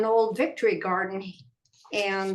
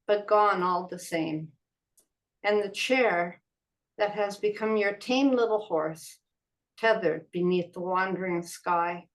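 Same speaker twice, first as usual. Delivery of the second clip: measured poem reading with pauses between phrases; unhurried recital of a poem. Acted. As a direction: read a poem aloud, pausing after each phrase. Reads own poem aloud.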